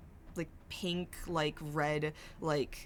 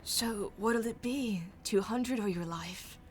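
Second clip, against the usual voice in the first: mocking threat; 4 semitones higher than usual.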